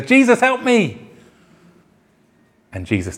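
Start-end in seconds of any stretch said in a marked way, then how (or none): 0.0-1.1 mock cry for help. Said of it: "He says".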